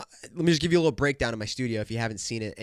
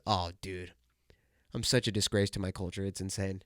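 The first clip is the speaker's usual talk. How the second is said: quiet mock shame; 7 semitones lower, 9 dB quieter than usual. Real, not acted.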